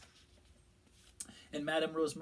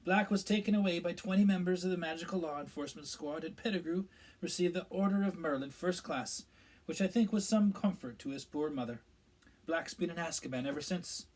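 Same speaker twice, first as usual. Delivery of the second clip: a higher, louder official's voice; Minister Fudge; 5 semitones higher, 6 dB louder than usual. A narrator's reading. Minister explaining events to the pub gathering, self-important. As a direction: voice the pompous minister telling the tale.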